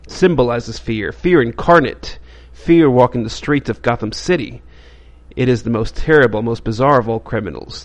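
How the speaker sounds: a touch of announcer drama, reading the blurb; dramatic comic intro read. Acted. Host reading the comic's intro to viewers, mildly dramatic. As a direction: voice the comic's opening like a serial narrator.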